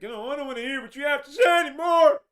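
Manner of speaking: high, loud whiny mock tantrum; crying baby. Commentator mocking the left walking out of an argument, mock crying tantrum. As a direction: wail it like a bawling baby, hammed up. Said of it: "they cry like little fucking babies".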